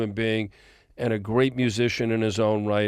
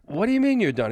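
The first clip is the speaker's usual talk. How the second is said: retold disbelief; 9 semitones higher, faster than usual. Retold shocked phone call.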